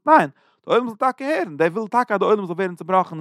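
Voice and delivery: retold insistent refusal. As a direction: push back insistently, pitch lifted. Envoy's retort to plea for quiet.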